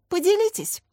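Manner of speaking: insist, leaving no room to refuse; demanding. A narrator's reading. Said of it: "потребовала женщина". (требовательно, высоко и громко)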